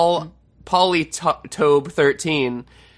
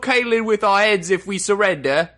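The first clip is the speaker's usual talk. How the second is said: Ironborn voice; 7 semitones higher than usual. Pretend. Game of Thrones bit in character.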